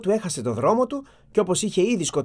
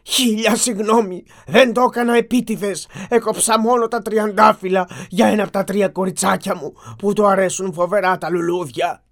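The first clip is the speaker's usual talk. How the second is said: tearful plea; 4 semitones higher, 5 dB louder than usual. Acted. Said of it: "γονάτισε μπροστά του κλαίγοντας".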